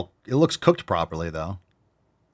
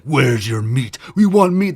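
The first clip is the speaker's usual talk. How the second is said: loud Viking demand, rising higher; raiding Viking; 5 semitones higher, 7 dB louder, slower than usual. Acted. Vikings come in for the meat, mock loud demand. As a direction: roar it like a hammed-up Viking raider. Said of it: "the Vikings come in like".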